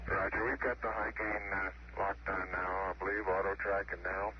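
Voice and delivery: over a crackly radio link; transmitted through a noisy radio; crackly military radio. Real, not acted. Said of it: "loud and clear".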